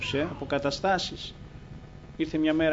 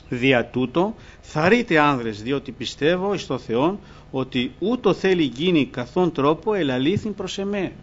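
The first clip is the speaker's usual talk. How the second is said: a touch of solemn scripture reading; 4 dB louder than usual. Acted. Reading Paul's words to the congregation, mildly solemn. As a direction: read Paul's words out, measured.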